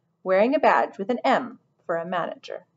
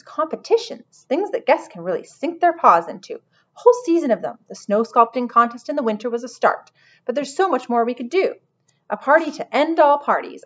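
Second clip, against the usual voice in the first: excited manager, mostly higher and louder; inspired lizard manager; 4 semitones higher, 4 dB louder than usual. Acted. Lizard manager hatching a spring contest, excitedly self-important.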